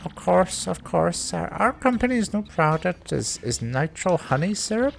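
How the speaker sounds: high, hesitant, stammering businessman voice; nervous businessman. Acted. Businessman reporting his lost briefcase, nervous and high.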